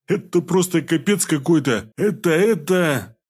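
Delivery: gush, lost for words; speechless delight. A narrator's reading. Pelmen gushes to the healer, slow high awe. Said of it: "не находил слов, чтобы выразить восхищение".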